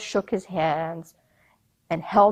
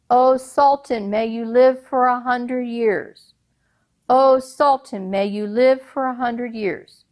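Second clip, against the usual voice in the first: crowd hailing; 3 semitones higher than usual. Acted. People bowing and crying out to the Sultan. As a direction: hail the ruler with praise.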